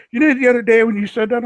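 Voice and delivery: imitating someone puzzled by his words, a touch of mock curiosity; mock puzzled question. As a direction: imitate a confused acquaintance. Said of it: "and they go".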